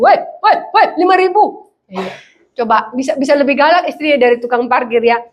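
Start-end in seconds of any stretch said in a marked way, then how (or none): 0.0-1.7 higher, mock-indignant call; angry parking attendant. Parking attendant refusing a small tip, mock-angry. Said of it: "Tukang parkir aja sekarang marah".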